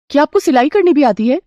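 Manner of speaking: can't believe she sews; surprised young bride. Acted.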